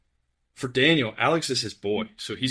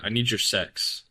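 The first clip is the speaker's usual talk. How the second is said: quoting a singer. Retold or imitated. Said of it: "is what Adam Levine said".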